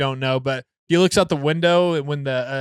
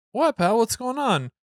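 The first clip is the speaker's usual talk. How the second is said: concerned father; 8 semitones higher than usual. Retold or imitated. Father voices concern to his son.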